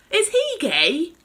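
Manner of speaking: high, loud, slow shouted question; shout from the front. Acted. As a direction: call it out from the driver's seat. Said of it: "shouted the woman from the front".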